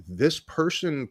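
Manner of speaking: slow and soft, drifting into a whisper at the end; hushed awe. Retold or imitated. Hypnotist marveling at client's grateful call, slow hushed whisper. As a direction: let the wonder hush you down. Awed retelling of client's thanks.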